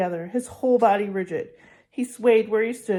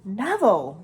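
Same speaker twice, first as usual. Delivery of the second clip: mild outburst; 4 dB louder than usual. Acted. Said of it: "Ron exploded".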